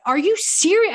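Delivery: high, incredulous outburst; re-enacted outraged yell, pitch leaping up; retold yelling. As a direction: act out yelling in disbelief. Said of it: "I'm just, like, yelling".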